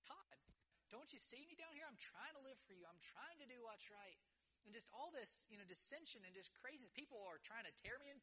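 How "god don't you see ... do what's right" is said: pleading upward to God, higher and softer; a hint of a discouraged man asking God why; discouraged plea to God. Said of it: "I'd be like".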